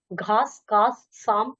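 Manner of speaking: घास, कास, साम each with a clear "s"; separately articulated s. Shown as a demonstration. Teacher drilling pronunciation, घास, कास, साम with distinct s. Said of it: "उच्चारण करते हुए अंतर समझिए".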